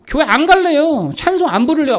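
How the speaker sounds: hammed-up refusing; mock defiant refusal. Acted refusal to sing or attend.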